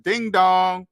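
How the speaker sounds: drawn-out "ding dong"; mock doorbell. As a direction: call it out like a doorbell chime. Imitates doorbell when debt is due.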